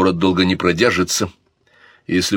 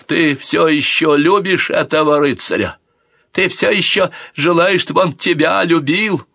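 put-on higher, loud sneering drunk taunt; mock his sister's love; drunken exclamation; 9 semitones higher, 4 dB louder than usual. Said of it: "пьяное восклицание брата".

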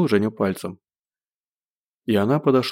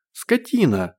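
higher furious shout; yelling insult; 6 semitones higher, much slower than usual. Acted. Zhenya yells an insult at Gosh, higher furious shout. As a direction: hurl the insult at him, high and sharp. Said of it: "заорала Женя".

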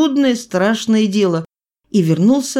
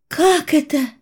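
mother's question; 9 semitones higher than usual. A narrator's reading. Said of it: "спросила мать".

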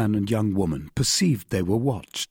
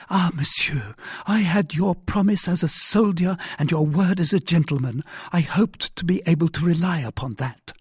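reproachful; 7 semitones higher than usual. A narrator's reading. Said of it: "in a tone of reproach".

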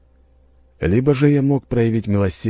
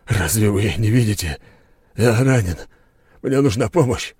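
wounded hoarse plea; 4 semitones higher, 4 dB louder than usual. A narrator's reading. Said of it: "прохрипел бритёр".

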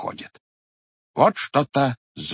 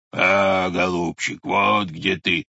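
lower, slow bear roar; 5 semitones lower, slower than usual. Acted. Bear poking its snout out, slow low roar. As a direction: growl it out like a bear from behind a tree. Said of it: "заревел медведь".

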